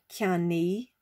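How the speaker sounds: "Ceannaí" said slowly as two syllables, "kya-nee"; two clear syllables. Shown as a demonstration. Teacher sounding out "Ceannaí" to learners as "kya-nee". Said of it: "hopefully you can hear there's two syllables".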